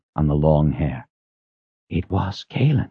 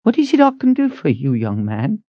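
uneasy; 9 semitones higher than usual. A narrator's reading. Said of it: "she said in an uneasy voice".

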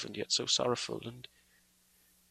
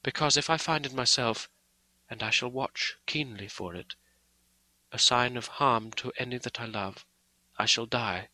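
direct simplicity. Acted. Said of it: "with direct simplicity, as though she were simply stating a fact".

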